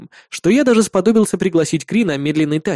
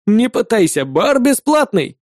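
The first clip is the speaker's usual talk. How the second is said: lightly smirking, higher pitch; 5 semitones higher, slower than usual. A narrator's reading. Bartender waving off payment at a free bar, smirking. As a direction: tease with a slight smirk. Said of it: "усмехнулся он".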